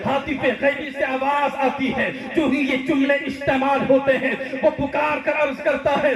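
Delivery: high, insistent sermon delivery; mounting preaching. Acted. Preacher telling the crowd of the unseen voice, mounting preaching.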